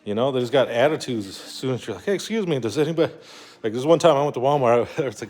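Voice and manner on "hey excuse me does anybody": higher-pitched imitation of flagging down staff; polite customer request. Customer approaching store staff for help, polite acted request. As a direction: politely try to catch a worker's attention.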